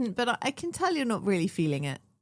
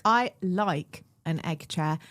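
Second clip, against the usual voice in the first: slow, insistent I like an egg chair; protesting she likes the egg chair, slow and firm; 2 semitones lower, much slower than usual. Shown as a demonstration. Defending herself to her friend, slowly and firmly. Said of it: "No, no".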